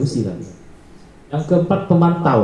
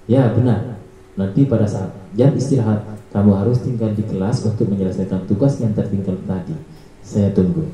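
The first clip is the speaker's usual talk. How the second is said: flat monitoring tone; 5 semitones lower than usual. Shown as a demonstration. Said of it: "nada suara datar".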